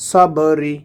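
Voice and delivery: "সবরি" with a bouncing b; qalqalah echo. Shown as a demonstration. Teacher showing the echo letter, rebounding b in "সবরি". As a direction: let the b of "সবরি" rebound before ri. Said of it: "এখান থেকে পাল্টা আওয়াজ আসবে".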